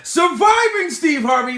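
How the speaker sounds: loud catchphrase shout. Real, not acted. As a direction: shout it out high. Shouts his show catchphrase.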